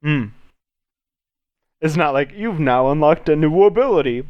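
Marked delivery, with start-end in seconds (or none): 2.3-4.2 lightly voiced game pop-up announcer; a hint of a video game notification voice; mock game announcement. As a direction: announce it like an achievement unlock. Mimics a game's unlock announcement.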